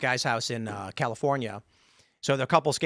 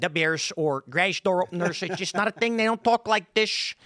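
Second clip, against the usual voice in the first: exaggerated SNL-skit Chicago accent, rising higher; mock Chicago accent; 4 semitones higher than usual. Shown as a demonstration. Chicagoan debunking the stereotype, mock Chicago accent. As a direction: ham up a cartoon Chicago accent. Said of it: "no one in Chicago ever talked like".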